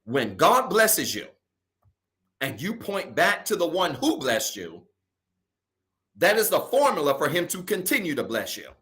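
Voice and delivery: slow, deliberate restatement with pauses between phrases; slow repeat. Real, not acted. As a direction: spell the point out slowly, phrase by phrase. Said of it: "I'm gonna say it again slow".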